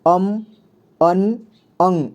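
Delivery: अम, अन and अंग each said slowly and clearly as its own sound; each nasal sound said on its own, for the class; three ways to say it. Shown as a demonstration. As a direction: spell out अम, अन and अंग one after another, like a teacher. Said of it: "इसे तीन तरह से उच्चारण किया जाता है".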